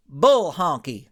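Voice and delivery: loud, blunt outburst; angry shout. Acted. Ranch hand shouts down his partner's theory. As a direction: bark out the dismissal. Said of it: "the mighty ranch hand shouted".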